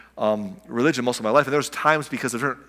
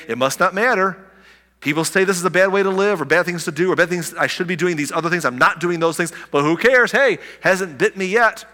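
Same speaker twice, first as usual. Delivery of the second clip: higher, flippant mock voice; careless shrug; 5 semitones higher, 4 dB louder than usual. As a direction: brush it off like nothing matters. Careless sinner voiced mockingly.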